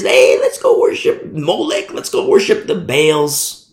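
slow, drawn-out mock invitation; false prophet invitation. False prophet invites the flock to worship idols, mock coaxing. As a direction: lightly mimic an enticing false prophet. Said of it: "the preacher guy, the prophet, the dreamer says".

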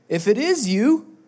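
high, loud, bold plea; eager Peter. Acted. Peter shouting to Jesus from the boat, high and bold. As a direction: call out boldly like a brash fisherman. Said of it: "here comes our boy Peter".

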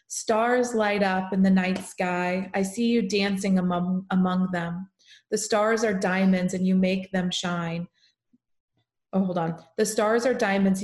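poem reading. Acted. Daughter reading her mom's poem aloud, tender recital. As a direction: read it gently, like a keepsake.

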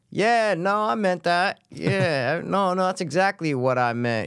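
a hint of a director playing along; Jordan Peele. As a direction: go up high and stretch the coy confirmation. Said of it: "he always does it where he's like".

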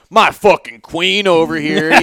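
lightly put-on white-trash tough talk; slow it down with mock redneck swagger; Dog the Bounty Hunter. Husband showing how he bragged about his wife, lightly trashy swagger. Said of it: "trying to sound like Dog the Bounty Hunter".

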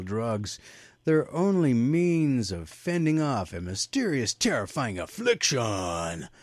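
mildly hammed-up horror trailer reading; dramatic synopsis read. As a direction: draw out the scary words with swooping emphasis. Reads film synopsis theatrically.

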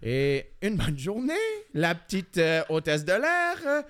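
lightly imitated French-from-France accent; accent français de France. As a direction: finish the setup in mock French accent. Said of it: "j'ai chié l'autre avec l'accent français". (léger accent de France imité)

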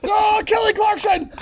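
mock high wail. Friend teasing his high-pitched yell, falsetto shout. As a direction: belt it like a pop diva.

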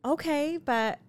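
high, loud disbelieving really; can't believe they'd pick thrift; incredulous. Real, not acted. Mom hearing her boys only want the thrift store, incredulous.

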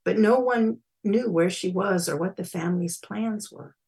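measured, dramatic story reading; eerie story told with deliberate pauses; story narration. A narrator's reading. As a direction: read a freaky tale deliberately, building to emphasis. Reads own story aloud.

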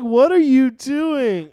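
Russ voice. Retold or imitated. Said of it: "Russ is gonna come upstairs like".

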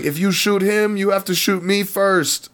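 retelling the TV scene, voicing the old Korean man high; imitating old man. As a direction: play the brave old man, high and strained. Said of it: "he's like".

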